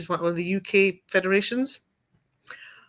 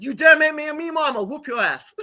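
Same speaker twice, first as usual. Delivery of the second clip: mock-threatening Southern mama; very southern accent; 8 semitones higher, 4 dB louder than usual. Mama threatening her daughter back, pretend southern accent. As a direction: scold in a put-on American South accent. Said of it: "a very southern accent together".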